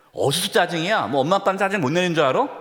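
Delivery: mock irritated snapping, fast; irritated parent. Parent snapping back at a cranky child, mock irritated. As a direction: snap back like an annoyed parent. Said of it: "이렇게 하면서 같이 짜증 내면은".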